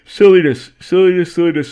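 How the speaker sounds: high, loud mocking chant; mock the app with a silly voice; mocking sing-song voice. Host mocking Twitter's message, loud silly chant.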